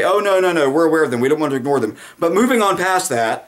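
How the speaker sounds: hammed-up dismissive anchor; mock dutiful host. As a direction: wave it away and move on. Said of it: "the host will dutifully say".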